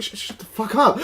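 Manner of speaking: breaking into laughter mid-line; laughing caller. Retold or imitated. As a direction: giggle through it like a kid who can't hold the prank. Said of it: "They were laughing".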